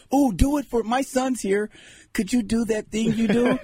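high-pitched eager fan request; pleading fan. Acted. Fan asks boxer to do his thing, high pleading.

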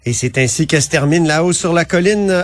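rough cavernous voice, still recovering from flu; cavernous post-flu voice. Real, not acted. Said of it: "ma voix caverneuse, euh, post-grippale".

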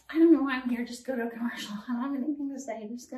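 a light flustered Teri Garr; Teri Garr impression. Shown as a demonstration. Lightly voiced Teri Garr impression for Johnny. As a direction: babble nervously like Teri Garr. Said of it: "Terry Garr".

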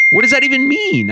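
high, disbelieving question; incredulous. Real, not acted. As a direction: really question it, baffled. Mocking coach's quote.

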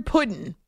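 'pudding' said as 'puddin''; Southern puddin'. Shown as a demonstration. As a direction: drop the final g of 'pudding'. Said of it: "He spells it like that".

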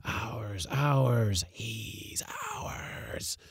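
hushed ghostly chorus; chorus of voices. A narrator's reading. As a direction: draw it out like ghosts claiming prey. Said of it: "sang ten voices".

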